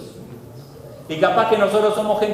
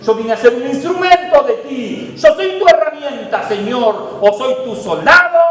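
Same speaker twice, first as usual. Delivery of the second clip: eager protest; 4 semitones higher, 5 dB louder than usual. Retold or imitated.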